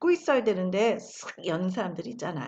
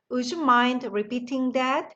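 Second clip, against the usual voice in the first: very slow, every word laid out; slow model sentence; much slower than usual. Shown as a demonstration. Teacher modelling the phrase slowly for the class. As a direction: spell it out slowly for learners to copy. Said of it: "다 같이 한번 읽어볼까요".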